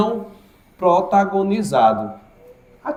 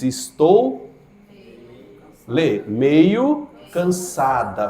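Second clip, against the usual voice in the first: slow tired drawl; much slower than usual. Retold or imitated. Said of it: "A menina diz".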